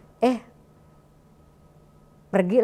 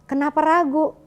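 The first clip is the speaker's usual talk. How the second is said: higher, louder insistent challenge; wife answering husband's doubt, raised and insistent; firm retold reply; 7 semitones higher, 3 dB louder than usual. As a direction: push back with conviction. Wife retells her firm reply.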